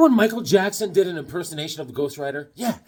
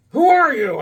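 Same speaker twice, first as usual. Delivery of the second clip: imitating confused mom; 9 semitones higher, 7 dB louder than usual. Mom waking him.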